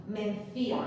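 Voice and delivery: "Mencía" with stressed "cí" and separate a. Shown as a demonstration. Teacher giving a name as a hiatus example, stressed Í. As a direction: lean on the í in "Mencía". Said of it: "tiene la fuerza de voz en la vocal débil".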